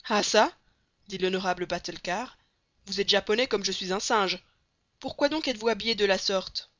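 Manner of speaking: loud, boastful circus director; booming showman. Acted. Batulcar boasting to Passepartout about his two arms, loud and proud. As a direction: brag like a barnum showing off his arms.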